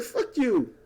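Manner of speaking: high, mock-outraged rant; imitating angry people. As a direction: fire it off like fed-up protesters. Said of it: "Because people are like".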